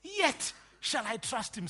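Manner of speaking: high, loud, slow declamation of scripture; quoting Job. Acted. Preacher quoting Job to the congregation, slow loud proclamation. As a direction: proclaim it slowly and forcefully as Job. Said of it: "says, says Job".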